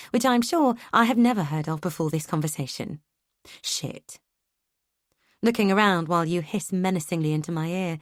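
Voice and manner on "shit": breathless whispered swear; whispered curse. A narrator's reading. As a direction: breathe it out in dismay. Muttered dismay under breath.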